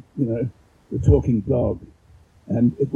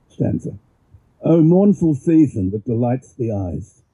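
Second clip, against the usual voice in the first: measured, declaiming verse reading; poem reading. Acted. Reads Pushkin poem aloud.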